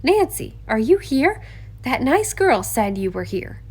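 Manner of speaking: high, loud call across the boat. Acted. Hannah searching the yacht calls for Nancy, loud and high. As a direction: shout to find your friend. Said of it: "a voice called".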